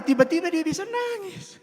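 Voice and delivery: high-pitched mock crying, half laughing; mock tearful. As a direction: let it rise into a playful fake wail. Illustrates sudden crying after anger. (pura-pura menangis, suara melengking)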